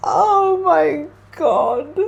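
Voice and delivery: high, drawn-out gasp of amazement; overwhelmed exclamation. Real, not acted. Reader stunned by a stuck card, real overwhelmed amazement. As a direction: stretch it out high, overcome.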